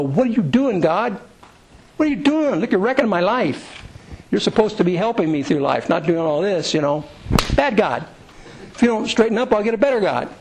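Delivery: mock-indignant grumbling upward; indignant younger self. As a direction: play a younger self lightly scolding God. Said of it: "when I was a younger person".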